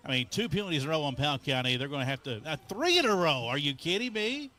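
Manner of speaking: fast, amazed and disbelieving; incredulous. Real, not acted. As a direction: rattle it off in disbelief. Third penalty in a row.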